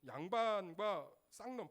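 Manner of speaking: slow, loud preacher emphasis; emphatic and slow. Real, not acted. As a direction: hammer each word, slowly. Preacher stresses old class labels.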